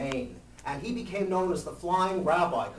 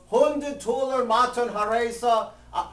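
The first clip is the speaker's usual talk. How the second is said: called back; 3 semitones higher than usual. Retold or imitated. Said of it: "He goes".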